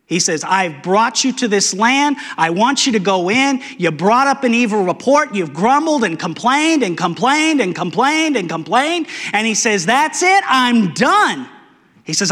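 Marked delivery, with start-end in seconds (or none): 0.4-9.1 higher, building exasperation; exasperated God. Acted. God scolds Israel for grumbling, rising exasperation. 9.9-11.5 high, sharp that's it; fed up. Acted. God tells grumbling Israel he's finished, fed up.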